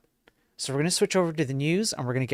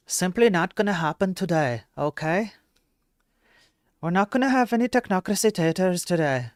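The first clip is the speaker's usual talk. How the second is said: mock emphatic; 5 semitones higher, 5 dB louder than usual. Mock emphatic refusal to chat.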